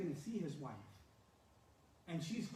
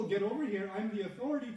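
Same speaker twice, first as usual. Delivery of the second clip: evil authority; 2 semitones higher, 4 dB louder than usual. Retold or imitated. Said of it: "from the evil".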